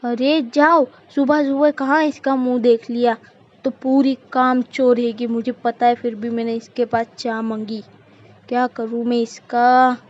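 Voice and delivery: irritated, dismissive complaint; exasperated matriarch, punching the orders; scolding mother-in-law. Acted. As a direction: shoo the useless daughter-in-law away.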